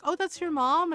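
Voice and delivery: retold surprise, voice lifted; surprised question. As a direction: react to an unexpected discovery. Lady surprised to learn it's mom.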